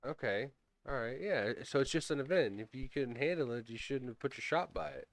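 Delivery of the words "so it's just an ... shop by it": flat sarcastic parroting of her words; mocking echo. Player mockingly echoing the dragon lady's excuse, flat sarcasm. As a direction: repeat her line back, dryly mocking. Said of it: "mocking echo of the NPC line".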